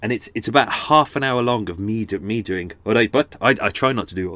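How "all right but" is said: Welsh accent. Shown as a demonstration. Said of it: "quite a nice kind of Cardiff accent".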